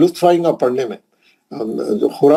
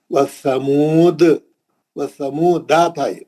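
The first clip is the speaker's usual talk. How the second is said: Quran recitation; much slower than usual. Shown as a demonstration. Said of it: "खलखला कुबरा को थोड़ा भारी आवाज से पढ़ना".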